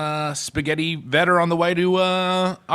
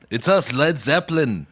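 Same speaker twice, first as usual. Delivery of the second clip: voice of a famous band. Acted. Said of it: that it's one rock band with, uh, another band's voices.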